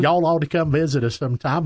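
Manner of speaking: imitated Tennessee Southern accent. Imitating wife's aunt inviting them to visit, Southern accent. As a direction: play a Southern relative giving an invitation. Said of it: "very distinct sort of Southern".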